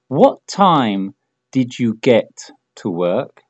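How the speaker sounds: slow, careful, word by word; slow model question. Shown as a demonstration. Teacher models the question slowly for repetition, slow and clear. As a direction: draw the question out for learners. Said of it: "repites lo que digo yo".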